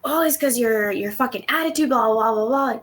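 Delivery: high-pitched imitated rant; hammed-up high grumbling outburst; mock angry retort. Acting out dad's angry retort.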